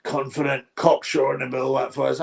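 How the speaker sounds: lightly voiced TV commentator, wordy and grand; mock commentator. Streamer mocking the wordy TV commentator, a lightly voiced commentator. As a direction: poke fun at a flowery pundit. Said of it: "I'm sick of adjective Adam".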